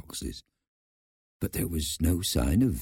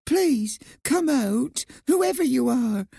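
high, tearful mouse pleading; 5 dB louder, slower than usual. A narrator's reading. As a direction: plead loudly, close to tears. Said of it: "she said tearfully".

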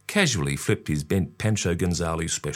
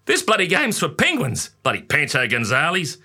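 father; 8 semitones higher than usual. A narrator's reading. Father frustrated on court.

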